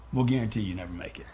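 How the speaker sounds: under the breath, low and hushed; sneaky whispered dig; whispered aside. Real, not acted. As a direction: drop to a whisper for the jab.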